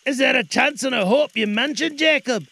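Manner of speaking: put-on high nervous old man asking; faltering voice. Scrooge nervously questions the ghost, faltering. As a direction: ask it with a faltering voice. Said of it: "in a faltering voice".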